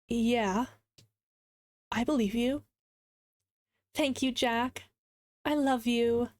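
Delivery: measured reading with long pauses; unhurried, expressive storytelling; dramatic story narration. Acted. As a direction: read the story aloud, acting the quotes. Reads a story aloud.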